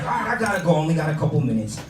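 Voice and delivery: uncle impression. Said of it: "He's like".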